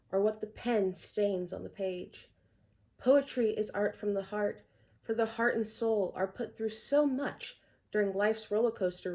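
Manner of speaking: measured, rhythmic recital of verse; poem reading. Acted. Poet reading Art from the Heart to viewers, poem reading. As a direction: read it out as an earnest refrain poem. Reads own poem aloud.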